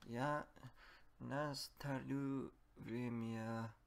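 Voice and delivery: usual speaking voice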